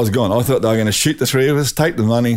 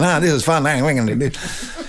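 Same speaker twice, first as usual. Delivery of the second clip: imitating an excitable friend, higher start; giddy excitement; 4 semitones higher than usual. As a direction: retell his giddy thrill, tailing into a chuckle. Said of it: "dancing around like an idiot, you know, thinking".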